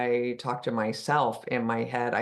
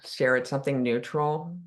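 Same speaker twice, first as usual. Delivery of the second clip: unhurried guidance with long pauses between phrases; calm meditation guide, phrase by phrase; guided meditation. Real, not acted. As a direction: ease listeners into stillness, leaving long silences. Leads a meditation.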